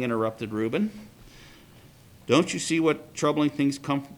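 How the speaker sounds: steady read-aloud storytelling voice; story reading. A narrator's reading. Teacher reading a midrash to the class, storytelling.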